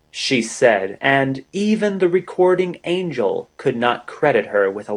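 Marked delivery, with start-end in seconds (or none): none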